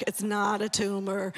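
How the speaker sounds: slow, lightly done Austrian accent impression of a tough action hero; a mild Austrian-accented growl, slow; Arnold Schwarzenegger voice. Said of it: "in Arnold Schwarzenegger voice".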